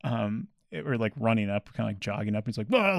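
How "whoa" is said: mild mock scream. Owner jogging up after his dog, mock scream. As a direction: imitate a man yelling for his dog. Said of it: "screaming the dog's name".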